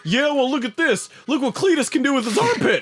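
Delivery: put-on Southern accent. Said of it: "some southerner shit".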